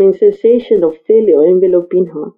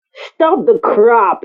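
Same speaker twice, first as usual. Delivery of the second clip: snapped; much slower than usual. Acted. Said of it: "he snapped".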